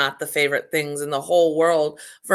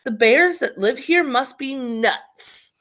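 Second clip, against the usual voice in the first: tired grumble; 6 semitones higher than usual. A narrator's reading. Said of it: "groaned the exhausted girl".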